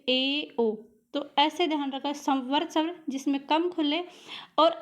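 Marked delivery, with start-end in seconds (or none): 0.1-0.7 ए and ओ with the mouth a little more open; teacher showing the half-closed vowels ए and ओ; vowel demo. Shown as a demonstration. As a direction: say ए, ओ as clear isolated vowels. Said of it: "उससे थोड़ा सा ज़्यादा खुले".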